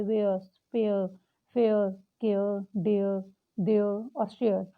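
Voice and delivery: "Where", "spare", "share" said slowly with a drawn-out air vowel; sounding out air words. Shown as a demonstration. Teacher models air words slowly for her class. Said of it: "अ और आ दोनों की sound".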